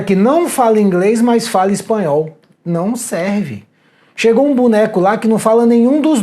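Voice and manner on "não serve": slow, stressed "não"; "Não" stretched and stressed, "serve" dropped; slow flat verdict. Shown as a demonstration. School owner turning down a candidate, slow and firm.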